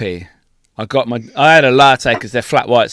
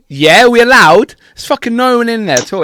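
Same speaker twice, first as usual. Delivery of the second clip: high protest; 9 semitones higher, 4 dB louder than usual. Retold or imitated. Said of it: "it's like".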